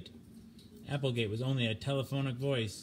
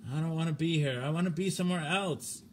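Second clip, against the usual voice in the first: panicked plea; 5 semitones higher than usual. Acted. Stimson panicking.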